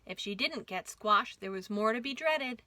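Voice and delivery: lively rhyming storybook read; reading to children. A narrator's reading. Host reads the caboose book aloud to kids, lively. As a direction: bounce the rhymes for little listeners.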